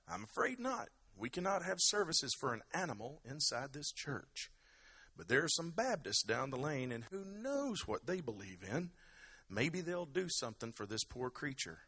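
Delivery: lightly put-on voice of a refusing parish priest; Father Patrick. Parish priest turns Muldoon down, priest voice. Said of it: "Father Patrick replied".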